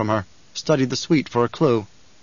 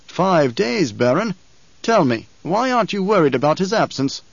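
cold rasping evil emperor; 5 semitones higher than usual. A narrator's reading. Emperor pressing the Baron.

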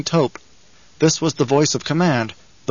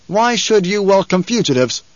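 higher, challenging question; demanding; 6 semitones higher than usual. A narrator's reading. Paul questions the tall man about welcoming fugitives, demanding. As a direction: demand an answer from a stranger. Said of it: "he demanded".

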